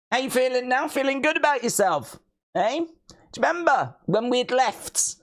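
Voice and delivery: high, sing-song teasing questions; mock taunting. To the chat, high sing-song taunting. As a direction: needle them like a playground bully.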